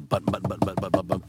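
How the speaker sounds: quick, soft, low string of taps; imitated button pushing. Crew guy triggers the squibs by hand, soft rapid-fire imitation. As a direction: rattle off rapid button presses. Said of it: "had to actually push little things".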